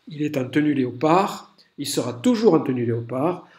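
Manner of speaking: speaking through hiccups. Real, not acted. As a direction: talk with hiccups catching. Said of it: "j'ai le hoquet".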